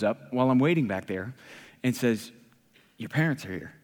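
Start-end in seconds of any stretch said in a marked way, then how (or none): 3.0-3.7 low, soft retold message; quiet announcement. Co-worker to waiter hiding in the kitchen, low and quiet. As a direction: pass on the news quietly and matter-of-factly. Staffer quietly delivers news.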